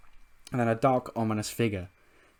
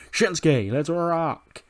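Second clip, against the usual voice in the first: high, stretched hyped-up shout-out; rocker's call; 5 semitones higher, 4 dB louder, much slower than usual. Acted. Rick Boogs to Shinsuke, high excited rocker call. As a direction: call your bandmate to rock. Voicing rocker calling to guitarist.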